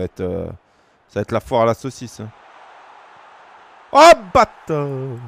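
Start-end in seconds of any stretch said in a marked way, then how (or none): 3.9-5.2 drawn-out exclamation. Real, not acted. Opponent scores a fine move.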